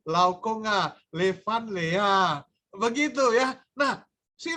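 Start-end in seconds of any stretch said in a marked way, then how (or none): 0.1-2.4 smiling greeting. Retold or imitated. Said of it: "sampai senyum-senyum".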